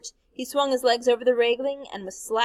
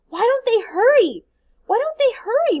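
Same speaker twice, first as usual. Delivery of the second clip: muttered; 13 semitones higher, 7 dB louder than usual. A narrator's reading. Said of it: "muttered Jem".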